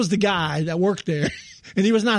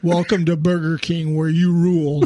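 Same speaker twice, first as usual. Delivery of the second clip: mock flat, joyless, unhappy droning monotone; 3 semitones lower than usual. Acting out the guy on the burger king speaker, imitating a monotone, unhappy voice. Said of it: "in the most monotone, unhappy voice".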